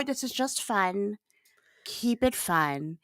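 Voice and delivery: soft slow whisper. Real, not acted. Soft advice.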